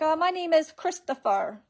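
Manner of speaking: high put-on caller voice; mock scammer Christopher. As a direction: fake the hesitant name. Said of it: "they're like".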